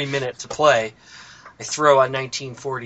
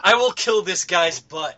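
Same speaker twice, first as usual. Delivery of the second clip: slow mock threat in an Indian accent; imitated Indian accent; 3 semitones higher than usual. Retelling a funny gameplay link, imitated Indian accent. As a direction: mimic an Indian-accented gamer, drawn out. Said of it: "Screaming in an Indian accent".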